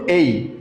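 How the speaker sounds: "এই" said with a gliding ay; letter A as ay. Shown as a demonstration. Teacher leading the class in saying "এই". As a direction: model "এই" clearly for repetition. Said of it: "আমার সাথে বলুন".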